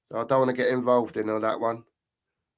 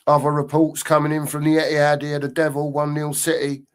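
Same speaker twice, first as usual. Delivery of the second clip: commentary voice. Shown as a demonstration. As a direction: practise a radio commentary read. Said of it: "Do you see how I'm, uh, changing the voice here?".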